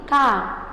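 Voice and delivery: "K" said as a light, unstressed ca; weaker syllable. Shown as a demonstration. Teacher showing the weaker syllable of café, unstressed. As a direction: let "K" sound weaker, as an open ca. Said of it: "o som dela fica mais fraquinho".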